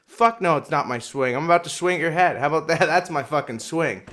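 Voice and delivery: mock angry comeback. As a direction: act out an indignant comeback. Retold angry comeback to staff.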